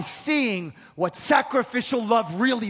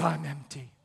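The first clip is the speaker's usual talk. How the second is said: bleak "I'm empty"; 9 semitones lower, 8 dB quieter than usual. Retold or imitated. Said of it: "she says".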